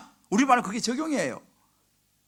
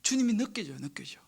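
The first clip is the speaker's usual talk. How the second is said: soft unvoiced whisper of awe; hushed whisper of feeling the Lord near; 2 semitones lower, 8 dB quieter than usual. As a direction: breathe it out in wonder. Describing felt presence.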